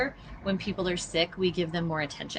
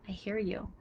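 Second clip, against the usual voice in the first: gentle and sincere; 2 semitones higher, 5 dB quieter than usual. Shown as a demonstration. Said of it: "just saying what all of us want".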